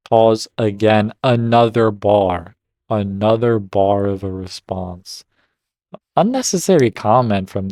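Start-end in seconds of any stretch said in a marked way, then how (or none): 0.1-5.2 excited reaction. Real, not acted. Reader reacts to a comeback.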